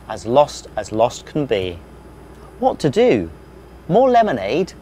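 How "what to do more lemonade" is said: helpful. Acted. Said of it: "asked Hubble helpfully".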